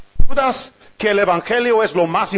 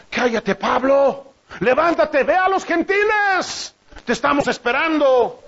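impatient God voice; 3 semitones higher than usual. Retold or imitated. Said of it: "Pablo anda discutiendo".

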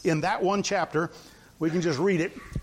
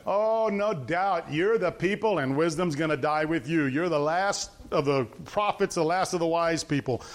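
sarcastic; 4 semitones lower than usual. Acted. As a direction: lay on fake admiration, stretching the start. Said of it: "This was Job being very, uh, sarcastic".

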